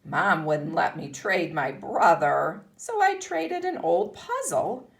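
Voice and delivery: put-on lively read-aloud for young pupils; story reading. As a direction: read it like a picture book to a class. Continues reading the book.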